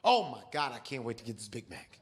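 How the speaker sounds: lightly hammed Tom Segura craving a burger. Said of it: "Tom Segura voice".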